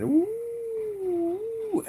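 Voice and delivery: high, floating ooh; woozy ooh. Retold or imitated. Tipsy brain reacts to the strong caipirinha with a high ooh. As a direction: let the drink hit your head. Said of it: "and my brain".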